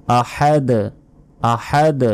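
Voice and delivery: আহাদ ending with a bounced, echoing d; bounced final d. Shown as a demonstration. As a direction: give আহাদ a jolt on the last d. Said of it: "ধাক্কা দিয়ে পড়তে হবে".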